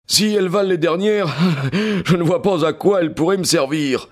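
high sneering snicker; sneering laugh. A narrator's reading. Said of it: "répondit Amberley en ricanant".

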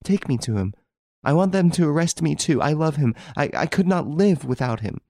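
high, tearful desperate pleading; sobbing. A narrator's reading. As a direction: plead through tears for her lover. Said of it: "she sobbed out".

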